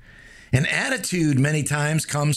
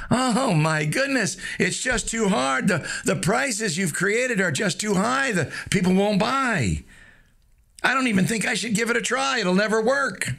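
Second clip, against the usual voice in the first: whiny self-doubt voice; 5 semitones higher than usual. Pretend. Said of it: "catch yourself saying things like".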